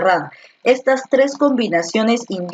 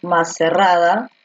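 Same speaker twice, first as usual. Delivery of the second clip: slow dictation. Shown as a demonstration. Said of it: "la combinación del diptongo es".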